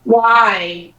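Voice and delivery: usual speaking voice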